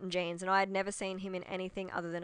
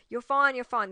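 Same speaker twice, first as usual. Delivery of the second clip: dismissive; 5 semitones higher, 9 dB louder than usual. Retold or imitated. Anesthetist dismissing her screams.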